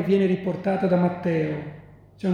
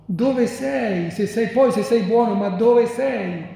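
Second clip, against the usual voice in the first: raised, insistent cry of the suffering; anguished cry; 3 semitones higher, 3 dB louder than usual. Acted. Suffering man calling out to a silent God, anguished cry. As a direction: plead upward, stretching the final question. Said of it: "il grido principale dell'uomo".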